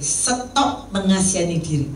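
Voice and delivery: firm, slow rebuke; retold scolding. Spiritual mentor rebuking her for self-pity, firm and slow. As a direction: retell a mentor's reprimand. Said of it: "Ternyata di hati saya".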